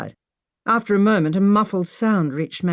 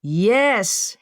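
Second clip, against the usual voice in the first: shouted; 4 semitones higher than usual. Acted. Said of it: "Henry shouted back".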